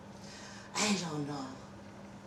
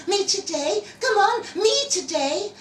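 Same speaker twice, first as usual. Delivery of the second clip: higher, louder mock wife, insistent; imitating his wife's eager demand, higher and louder; 13 semitones higher, 9 dB louder than usual. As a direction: play the wife pleading, pitched up. Husband quotes his wife's bedtime demand.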